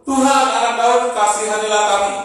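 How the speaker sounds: loud pleading cry; loud desperate plea. A narrator's reading. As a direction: call out to Jesus for mercy. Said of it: "Lalu mereka berseru".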